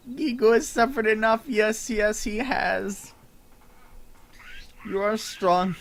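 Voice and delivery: high, eager little goblin voice; voiced NPC.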